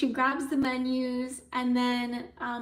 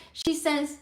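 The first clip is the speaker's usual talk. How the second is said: normal talking voice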